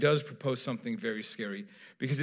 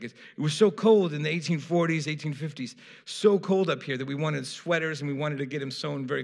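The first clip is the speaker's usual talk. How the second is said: retold Manchester bar guy; 3 semitones higher, 3 dB louder than usual. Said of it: "I'm not gonna try to do their accent".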